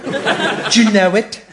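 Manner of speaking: slow, wobbly fake English accent; badly faked, wandering English accent; shifting fake accent. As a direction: draw out a phoney English accent. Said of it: "this unique accent, which keeps changing".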